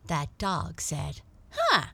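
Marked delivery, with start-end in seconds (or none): 1.5-1.9 high, loud and quick wounded pride; dog grumbling that the cat outsmarted him; indignant grumble. Acted. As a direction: huff about being chased off. Dog grumbles about being fooled.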